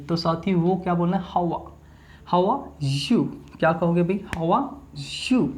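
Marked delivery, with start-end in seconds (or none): 2.3-3.3 How are blended into one word like "hawa"; how are run together. Shown as a demonstration. Teacher shows students how are as hawa, blended. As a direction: say How are as "हवा", no break. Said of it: "इस how और are को क्या बना दो भाई? हवा".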